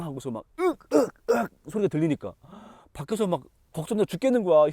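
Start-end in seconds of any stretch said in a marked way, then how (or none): 0.9-1.3 high, loud grunt of pain. Acted. Beaten son cries out under the blows, sharp pained grunt. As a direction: yelp like a blow landed.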